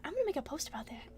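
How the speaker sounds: soft fast whisper. Real, not acted. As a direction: whisper it quickly. Whispered aside.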